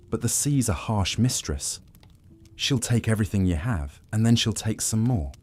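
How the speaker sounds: lightly voiced old sea dog, warning; a touch of pirate brogue, grim; grizzled old pirate. Old pirate warns crew about the sea, lightly voiced.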